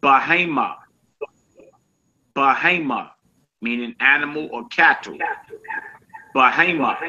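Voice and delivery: Bahama said as beh-HAY-mah, even and clear; Hebrew word modeled. Shown as a demonstration. Teacher drilling Bahama for students, steady and clear. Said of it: "which is Bahama".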